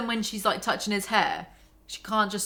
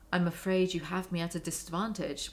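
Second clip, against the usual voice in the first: a touch softer, mildly timid; quiet; 2 semitones lower, 6 dB quieter than usual. Acted. Anna meeting the housekeeper, lightly voiced and quiet. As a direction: say it softly like an embarrassed guest. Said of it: "My voice is quiet".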